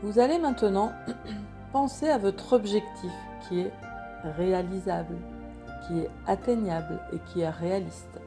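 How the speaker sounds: guided meditation. Acted. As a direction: guide them gently into calm. Meditation continues.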